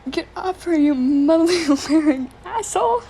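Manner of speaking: rescuer's yell. Acted. Rescuer yells across the river.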